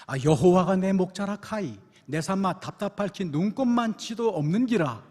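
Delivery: loud, hearty Gyeongsang dialect reading. Retold or imitated. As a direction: belt the psalm out in broad Gyeongsang speech. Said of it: "먼저 경상도 버전입니다".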